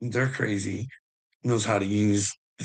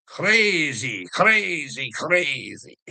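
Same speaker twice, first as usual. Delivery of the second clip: exclaiming; 5 semitones higher, much slower than usual. Real, not acted. Exclaims at the madness.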